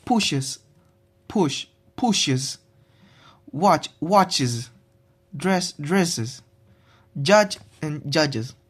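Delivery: pushes said push-iz with an added syllable; es as extra syllable. Shown as a demonstration. Student demonstrating pushes with an extra syllable. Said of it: "easy adds an extra syllable".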